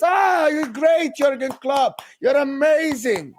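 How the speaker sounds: drawn-out, exaggerated admiration; mock gushing praise. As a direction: stretch out the praise as if fawning over him. Mimicking gushing praise of manager.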